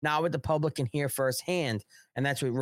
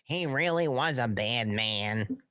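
mock sarcastic awe; slower than usual. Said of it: "we'll say".

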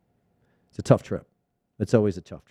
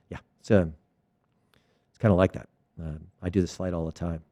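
low, unbothered reassurance, trailing softer; voice of reason; 5 semitones lower, 3 dB quieter, faster than usual. Acted. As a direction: play the unfazed frequent flyer, low and easy. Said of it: "there's a voice of reason".

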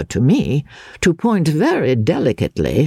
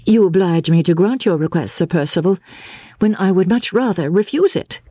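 a hint of a reluctant lady, slightly higher; lightly voiced Miss Halcombe; 4 semitones higher than usual. Miss Halcombe to Sir Percival, grudgingly agreeing, lightly voiced. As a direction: give in politely but unwillingly.

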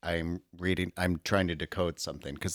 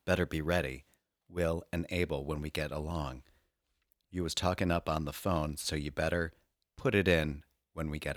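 dramatic reading. Pretend. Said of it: "brief dramatic reading".

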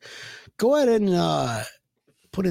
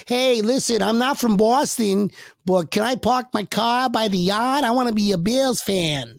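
a mock Boston accent, pitched up; 5 semitones higher than usual. Patriots fan begging Bills radio, in mock Boston accent. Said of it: "See, that was a good accent".

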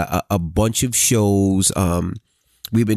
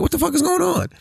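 alarmed question. Retold or imitated. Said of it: "So I'm like".

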